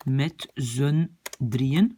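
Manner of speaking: "met z'n drieën" slow, word by word, long DRIE; accent sur le I. Shown as a demonstration. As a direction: separate each word, hold "drieën". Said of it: "l'accent est sur le I". (« met z'n drieën » lent, mots détachés)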